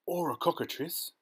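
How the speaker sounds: high alarmed exclamation; storybook yell carried by pitch; mock yell. A narrator's reading. Police chief guesses at the monster, high-pitched mock yell. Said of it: "yelled the chief of police".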